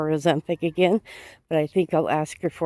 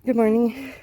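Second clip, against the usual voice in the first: friendly call-out; 7 semitones higher than usual. Real, not acted. Breathless walker greets a passerby, high friendly call. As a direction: sing it out to someone passing by.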